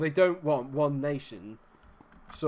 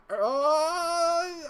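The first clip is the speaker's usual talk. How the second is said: high squeal; 5 dB louder than usual. Real, not acted. Squeal at near-goal.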